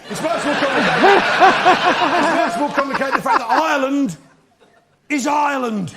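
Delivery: laughing loudly through the line. Acted. Comedian cracking up at his own joke.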